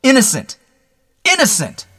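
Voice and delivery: very high, desperate cries; shouted. Acted. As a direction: cry it out as nerves give way. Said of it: "he shouted".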